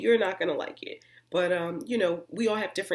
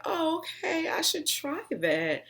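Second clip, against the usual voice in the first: mock delighted self; 10 semitones higher, slower than usual. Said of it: "And I was like".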